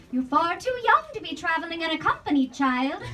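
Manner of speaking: put-on high, slightly fast young girl voice; lightly voiced earnest little girl; Wendy voice. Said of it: "my character reference".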